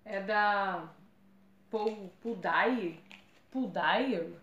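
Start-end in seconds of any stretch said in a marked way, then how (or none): 1.7-4.3 slow, halting tries at Pudai and Pudair; unsure pronunciation. Real, not acted. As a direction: sound out Pudair with a wavering tune, unsure of it. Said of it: "Não sei como fala isso".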